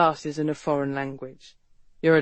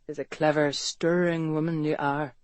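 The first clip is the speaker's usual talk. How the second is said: lightly done Irish brogue, teasing; a hint of Irish charm, flirting; light teasing Irish lilt; 3 semitones lower than usual. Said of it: "Irish brogue".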